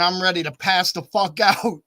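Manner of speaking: tipsy and fading, laughing through it; laughing tired drunk. Retold or imitated. Woman who's had enough to drink, laughing. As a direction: laugh while saying you're done.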